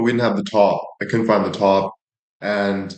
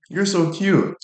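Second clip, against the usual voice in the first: high, sweet cooing voice; cooing at a kid; 9 semitones higher, slower than usual. Retold or imitated. Telling a little girl she's pretty, high cooing. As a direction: coo it up high like praising a toddler. Quoting himself to a cute kid.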